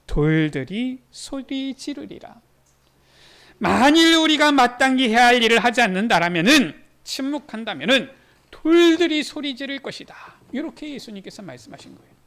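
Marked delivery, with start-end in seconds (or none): 0.1-2.4 slow, weighty, leaning on 소리; slow title reading. Shown as a demonstration. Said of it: "말씀의 제목은 무엇입니까?". 3.6-10.2 louder, forceful preaching; loud proclamation. Acted. Preacher proclaims Jesus' warning.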